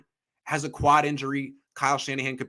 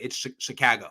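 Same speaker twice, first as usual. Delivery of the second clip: Chicago accent; 3 dB quieter than usual. Shown as a demonstration. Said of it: "a California would say it".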